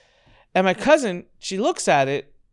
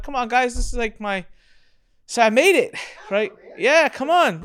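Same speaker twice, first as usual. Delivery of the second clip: high, louder mock plea for attention; pleading; 10 semitones higher, 5 dB louder than usual. Host pleading with relatives to admire his house, high. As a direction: whine at the family to notice. He begs family to notice house.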